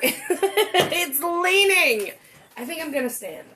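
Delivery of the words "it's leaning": slow laughing complaint. Real, not acted. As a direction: laugh at the leaning chair. Wobbly chair.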